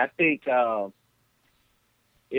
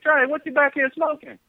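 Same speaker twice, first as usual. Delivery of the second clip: high calling voice from another room; granddad calling; 11 semitones higher than usual. Retold or imitated. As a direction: call the name up high, a room away. Grandfather accusing in person.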